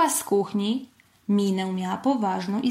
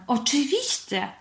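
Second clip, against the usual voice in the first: smiling encouragement; 5 semitones higher than usual. A narrator's reading. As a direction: answer through a smile. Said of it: "uśmiechnęła się mama". (ciepło, z uśmiechem)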